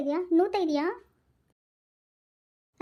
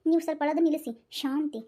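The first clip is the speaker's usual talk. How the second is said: calm him down gently; soothing; 2 semitones lower, 4 dB quieter than usual. Acted. Wife soothing the crying husband.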